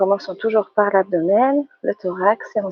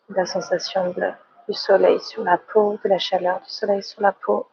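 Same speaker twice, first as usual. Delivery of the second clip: guided relaxation. Real, not acted. Teacher settling the yoga class into relaxation, calm guided meditation. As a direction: ease them gently into relaxing.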